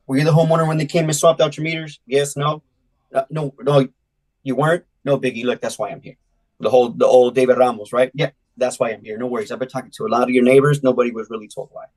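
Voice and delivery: door pitch demo. Shown as a demonstration. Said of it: "The way I like to do it".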